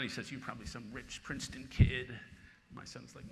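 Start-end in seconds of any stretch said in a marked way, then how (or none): 0.3-2.1 hammed-up heckler shout, louder; mock drunken yell. Drunk fan at a ballgame yelling at his son, mock shout. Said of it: "he screams at my son".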